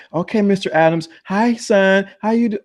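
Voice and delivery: high-pitched imitated greeting; retold cheery greeting. Staff greeting Mister Adams on the way out, high mock-friendly greeting.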